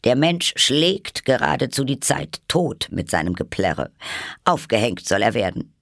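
lightly voiced outraged queen crying out; exclaiming. A narrator's reading. Hatter quotes the Queen condemning his singing, crying out. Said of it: "als die Königin ausrief".

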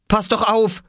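put-on high, cross child's snap; annoyed cry. A narrator's reading. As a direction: scold him like an annoyed big brother. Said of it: "rief Oskar ärgerlich".

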